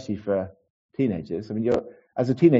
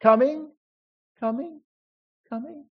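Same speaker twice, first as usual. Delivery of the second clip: reverberating echo. Acted. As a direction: imitate your call dying down a corridor. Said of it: "resonates down the corridor and reverberates".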